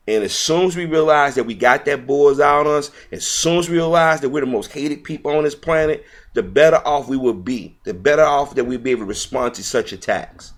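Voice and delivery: rising passion. Real, not acted. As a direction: build it up like a fiery sermon. Passionate rant about being targets.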